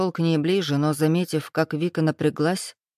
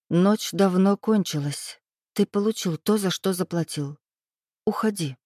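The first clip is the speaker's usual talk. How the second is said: dry and cold. Acted. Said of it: "сухо добавив".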